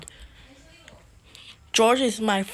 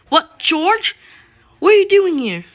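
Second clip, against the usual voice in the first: high, loud acted shock; startled shout; 9 semitones higher, 10 dB louder than usual. Josiah finds George attacking him, startled shout. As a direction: exclaim it high in mock surprise.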